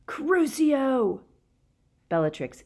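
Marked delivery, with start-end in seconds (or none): 0.1-1.2 loud, high furious curse; bellowing. A narrator's reading. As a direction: bellow it with hatred.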